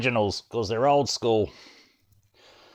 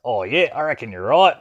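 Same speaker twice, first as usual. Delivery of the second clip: laid-back Aussie bloke; aussie tradesman. Pretend. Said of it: "Australian Space Force landing on the moon".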